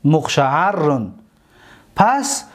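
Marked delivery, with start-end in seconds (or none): 0.0-1.1 مقشعرن drawn out with a long rr; teacher dictating مقشعرن slowly; slow dictation. Shown as a demonstration. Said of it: "که مقشعرن".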